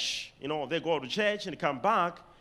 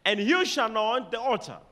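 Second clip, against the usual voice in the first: raised, ringing verse reading; solemn scripture reading; 2 semitones higher than usual. Shown as a demonstration. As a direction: proclaim it to the congregation. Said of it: "underline the word".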